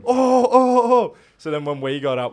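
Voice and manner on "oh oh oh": high, loud taunting yell; shouted high mock taunt. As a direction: jeer like the rival fans.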